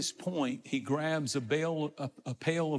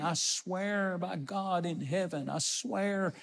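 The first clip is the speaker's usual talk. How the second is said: slow, higher-pitched solemn swearing; swearing an oath; 3 semitones higher, slower than usual. Acted. Peter swearing to bystanders he doesn't know Jesus, emphatic oath. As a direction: swear it slowly, drawing out each vow. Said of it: "a, a swearing".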